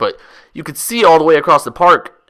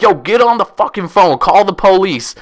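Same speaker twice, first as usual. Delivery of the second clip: retold yell; 5 semitones higher than usual. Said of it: "I'm yelling at the girl".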